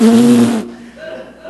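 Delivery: loud blown-out noise of decline; imitated collapse noise. Shown as a demonstration. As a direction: make the noise of things going south. Imitates sudden decline at thirty.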